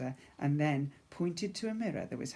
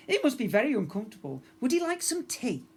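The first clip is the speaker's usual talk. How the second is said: starstruck dad; 8 semitones higher, 4 dB louder than usual. Acted.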